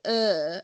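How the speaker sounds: "Uh" said as a Hull er; Hull er vowel. Shown as a demonstration. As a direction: give "Uh" the long Hull "er" vowel. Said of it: "So the ers still cause me a problem".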